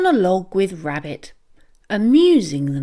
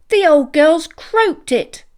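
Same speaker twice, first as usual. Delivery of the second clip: frustrated exclaim; 6 semitones higher, 5 dB louder than usual. A narrator's reading. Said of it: "he exclaimed with frustration".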